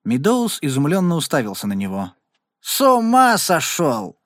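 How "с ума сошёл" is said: high, drawn-out disbelief; astonished exclamation. A narrator's reading. Meadows hears Regan's job plan, astonished exclamation. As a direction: exclaim it slowly, pitch leaping up. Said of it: "воскликнул он".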